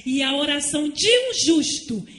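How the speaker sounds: loud, slow, drawn-out preaching with rising pitch; fiery preaching. Acted. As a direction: thunder the warning to the congregation. Preaching at full force.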